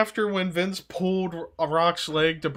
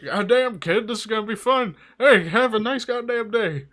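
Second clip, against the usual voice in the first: Austin impression; 4 semitones higher than usual. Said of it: "he's like".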